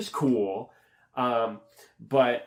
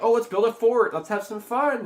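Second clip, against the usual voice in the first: mock enthusiasm; 10 semitones higher, 4 dB louder than usual. Mimics characters proposing fun.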